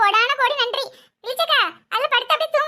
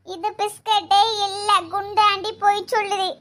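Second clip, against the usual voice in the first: put-on five-year-old child; 2 semitones lower than usual. Child accusing auntie of lying, childlike. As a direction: complain like a small child. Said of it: "அஞ்சு வயசு குழந்தைதான்".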